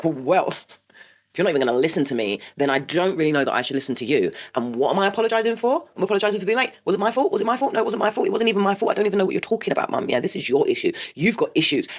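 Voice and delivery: mock the son's indignant protest; indignant teen. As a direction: son arguing back at mum, indignant. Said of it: "the most indignant child".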